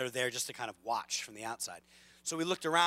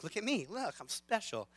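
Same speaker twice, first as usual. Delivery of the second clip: high mock attention-seeking child voice; show-off kid; 8 semitones higher, 4 dB quieter than usual. Preacher mimicking an oldest kid who wants the big stage, high show-off voice.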